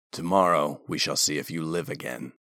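low, grim commander voice; low and cold, dismissive. A narrator's reading.

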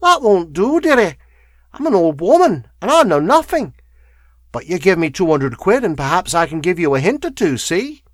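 put-on high, loud, wheedling old woman; wheezy crone. A narrator's reading. Old woman bargaining with the lawyer over a hint, wheezy. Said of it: "she wheezed".

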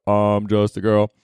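slow echo from the male fans; boys in the crowd. Retold or imitated. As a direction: answer back slowly as the guys in the audience. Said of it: "And then the boys go".

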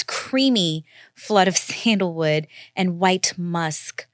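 breathy whisper, stifling a laugh; whispered giggling read. Real, not acted. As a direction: read it while trying not to laugh. Reading a dramatic perfume blurb.

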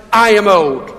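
put-on "I am old" said with measured emphasis; emphatic declaration on "I am old". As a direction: state "I am old" firmly, each word weighted. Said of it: "it's very emphatic the way".

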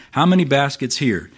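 a touch of exasperation on "How many baskets here?"; mildly frustrated question. Retold or imitated. Jesus to the disciples in the boat, mild frustration. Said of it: "You can almost hear the frustration here in Jesus' voice".

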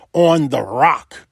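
"on the rock" with "rock" set down firmly; emphasis on rock. Real, not acted. Preacher explaining where to build, "rock" firmly emphasized. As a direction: lean deliberately on "rock" to close the point. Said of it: "I know I'm putting emphasis on the rock".

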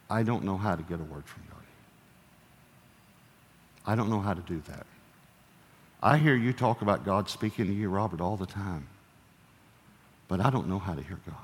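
retold crying. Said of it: "she started crying".

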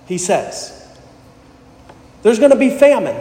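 rising, emphatic reading of the verses; scripture reading. Acted. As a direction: build each although with fervour. Reads closing verses.

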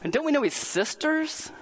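mocking crowd. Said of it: "they start mocking him and jeering him".

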